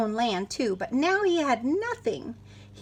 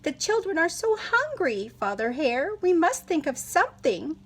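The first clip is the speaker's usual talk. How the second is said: pleading wife; 5 semitones higher than usual. Acted. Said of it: "Missus Hare cried".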